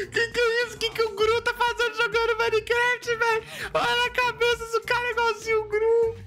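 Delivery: high, strained words squeezed out through laughter; gasping it out while still laughing; high wheezing amusement; laughing disbelief. Real, not acted. Still cracking up at the Gru lookalike.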